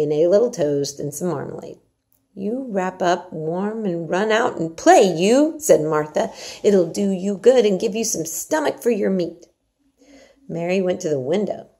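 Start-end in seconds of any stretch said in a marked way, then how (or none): 2.3-9.5 Yorkshire maid Martha. Acted. Martha urges Mary to eat her porridge, hearty and coaxing. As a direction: coax the child like a bossy country servant.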